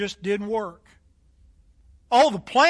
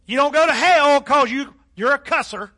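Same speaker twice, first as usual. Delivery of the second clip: lightly imitated southern drawl, louder; Billy Graham's southern drawl; 3 semitones higher, 5 dB louder than usual. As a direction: quote the preacher with a hint of southern drawl. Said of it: "just in that southern drawl".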